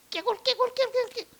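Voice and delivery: high-pitched, repeated frog croaks; frog croaking. Acted. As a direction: imitate a croaking frog on one high note. Imitating frogs after naming them.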